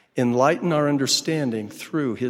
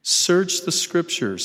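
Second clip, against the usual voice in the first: "search" punched higher, then slowly onward; stress on search; 5 semitones higher, slower than usual. Real, not acted. Speaker resuming the prophet's quote, stress on "search". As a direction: lift "search" high and give it weight. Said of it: "I emphasize the word search".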